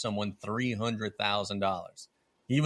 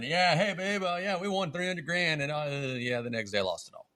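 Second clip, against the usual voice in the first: high-pitched, hemming husband act; mock sheepish confession; 6 semitones higher than usual. Explaining a gambling loss to babe, hammed-up sheepishness. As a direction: pretend to break bad news sweetly to your partner. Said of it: "Can you imagine explaining to Claire or Aaron".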